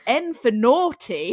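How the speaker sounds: drawn-out, laughing N for naughty; slow, laughing N for naughty. Retold or imitated. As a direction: savour the word naughty with a laugh. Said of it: "you went".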